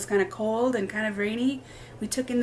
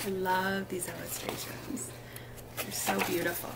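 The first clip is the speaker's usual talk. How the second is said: soft whispered aside, much softer; 3 semitones lower, 8 dB quieter than usual. Real, not acted. Teacher whispering to children about the pictures, hushed.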